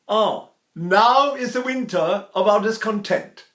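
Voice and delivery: slow, grand Shakespeare line; Shakespearean declaiming. Shown as a demonstration. Teacher hamming a Shakespeare line. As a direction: declaim it like a stage actor. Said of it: "speak a very high English".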